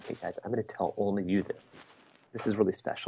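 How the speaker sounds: hushed, confiding voice. Speaker shows how they talk to a class, in a lowered confiding voice. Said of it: "if I lower my voice and say".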